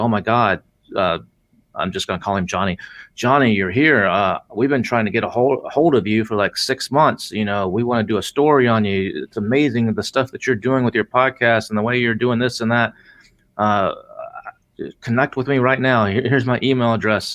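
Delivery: normal talking voice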